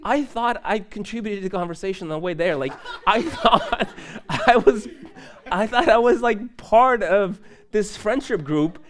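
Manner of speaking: mock-hurt disbelief broken by laughter; amused, self-mocking lament; laughing. Laughing, retelling his hurt thought.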